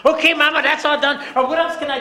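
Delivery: put-on very high, loud child voice; eager little girl. Little girl reports her chores to mama, very high. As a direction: chirp it out like a proud child. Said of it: "little girl done cleaning".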